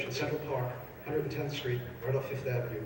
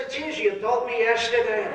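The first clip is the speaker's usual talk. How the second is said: deadpan punchline; 8 semitones higher than usual. Acted. Punchline from forgetful friend.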